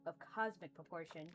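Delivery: soft, even monotone; calm, flat servant voice; monotonous voice. Acted. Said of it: "greets you in a monotonous voice".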